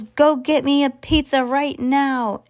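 put-on demanding spoiled kid, slow and pushy; bratty yell. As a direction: whine it like a spoiled brat ordering mom. Kid imitating spoiled boy yelling.

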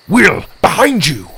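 loud, high warning cry; urgent warning. Acted. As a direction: call out a sudden danger.

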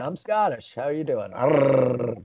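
lazy Scottish imitation with rolled R; jokey Scottish greeting ending in a trill; mock Scottish accent. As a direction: fake a Scot by rolling the R. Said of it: "accent to imitate".

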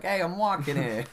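high, loud comic holler; hammed-up loud protest; captured hobbit's mock protest. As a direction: shout it like an indignant passerby, for laughs. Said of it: "they're like".

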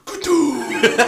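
shouted ceremonial call; booming shout. Pretend. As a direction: bellow the word out. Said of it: "just go".

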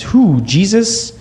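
high, drawn-out puzzled question; puzzled kid. Retold or imitated. Son mishearing mom's marriage news, puzzled. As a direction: ask it slowly, pitch swooping up.

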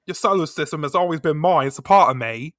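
put-on playful Essex accent. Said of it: "I'm thrown by my own Essex accent".

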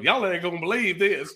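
put-on Texan accent on "Y'all ain't gonna believe this"; Texas storyteller. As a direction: open a tall tale the Texas way. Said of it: "A Texas fairy tale".

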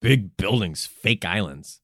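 low, measured mock announcer; TV promo. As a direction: pause between phrases like a promo tagline.

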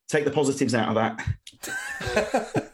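lightly voiced gruff manager, slow and laughing; a hint of a sulking manager, drawn out slowly; laughing half-impression of a beaten manager, slow; imitating Warnock. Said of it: "and then he goes".

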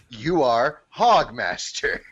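slow, grand slogan; mock-epic recital. Host imagining the PR people's slogan, mock-epic recital. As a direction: draw it out grandly like an epic motto. Repeats the poem's grand line.

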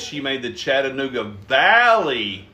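slow clear version. Shown as a demonstration. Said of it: "don't speak a hundred mile an hour".

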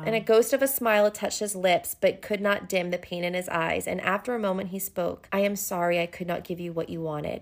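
subdued, even reading voice; story narration. A narrator's reading. Reading his sorrowful apology to her, subdued narration. Reads the novel aloud.

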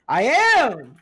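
high, loud boast; loud insistence. Real, not acted. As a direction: shout it proudly. Insisting he is a nasty killer.

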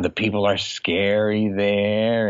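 slow, drawn-out mock disgust; a hammed-up snob complaining about Mexico; mock disgusted lady. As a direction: stretch it out like a snobby lady sneering. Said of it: "And she's like".

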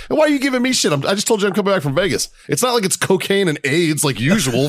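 a hammed-up protest at the doctor; mock indignant rant. Retelling his indignant reply to doctor.

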